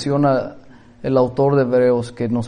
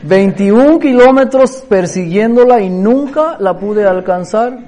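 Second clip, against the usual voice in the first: laughing; 6 semitones higher, 5 dB louder than usual. Real, not acted. Laughing at own failed chase.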